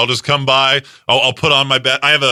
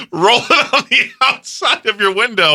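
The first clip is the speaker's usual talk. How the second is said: words squeezed out through laughter, pitched up; laughing; 8 semitones higher than usual. Real, not acted. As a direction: talk while cracking up. Laughing through absurd image.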